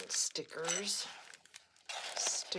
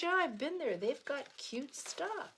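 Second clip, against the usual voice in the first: friend's voice; 9 semitones higher than usual. Retold or imitated. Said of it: "She says".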